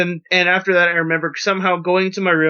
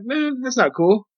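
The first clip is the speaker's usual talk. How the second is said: retold dismay; 5 semitones higher than usual. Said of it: "I'm like".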